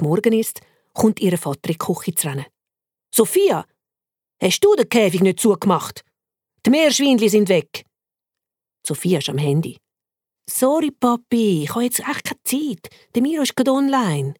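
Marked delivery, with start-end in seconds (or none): 3.1-7.8 father calling out, a bit louder; fretting dad asks his daughter; worried father. Acted. Father bursts in about open cage, upset. 10.5-14.3 put-on lightly higher, brushing-off girl; teen on her phone waving dad off; distracted girl. Daughter brushes off father, distracted.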